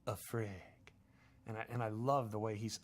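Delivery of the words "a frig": put-on slow, heavy Chechen accent with freak said as frig; slow Chechen gangster accent. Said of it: "I loved his accent".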